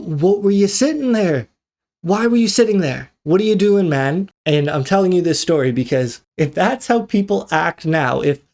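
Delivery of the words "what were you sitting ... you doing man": higher-pitched, incredulous questioning; exasperated. Retold or imitated. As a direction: demand an explanation from the machine hogger. Ranting at the phone scroller.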